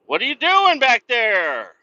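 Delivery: loud, high exasperated yell. Real, not acted. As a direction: yell at the tailgater in frustration. Trooper tailing him.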